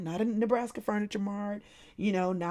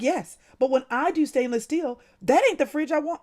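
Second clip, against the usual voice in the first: worked-up reply; 5 semitones higher than usual. Retold or imitated. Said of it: "the guy said".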